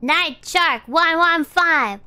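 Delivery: slow code reading. Shown as a demonstration. Streamer speaking the passcode into the receiver, slow and careful. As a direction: read each number carefully, slowly. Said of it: "reading the code slowly".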